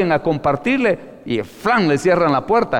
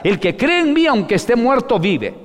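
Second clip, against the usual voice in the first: higher, louder declaration that fades; proclaiming; 7 semitones higher, 3 dB louder than usual. Acted. Preacher quoting Jesus to the church, proclaiming loudly. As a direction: announce it to the crowd.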